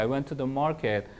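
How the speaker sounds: very slow, word by word English; teacher reading a model sentence slowly; slow demo sentence. Shown as a demonstration. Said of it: "이제 화려한 전치사 쓸게요".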